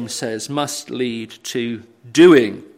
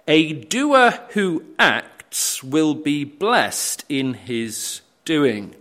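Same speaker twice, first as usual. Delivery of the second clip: scripture reading; slower than usual. Acted. Reads James aloud, very slow.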